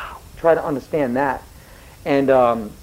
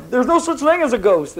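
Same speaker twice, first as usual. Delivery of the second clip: high mock-kid objection; objecting schoolkid; 7 semitones higher than usual. Teacher mimics seventh graders questioning the play, high protesting voice. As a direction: imitate a pupil protesting, pitched up. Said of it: "you get questions like that".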